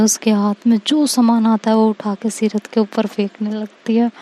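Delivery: ordinary delivery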